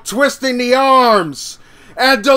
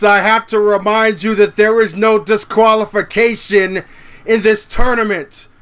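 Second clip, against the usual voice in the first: normal talking voice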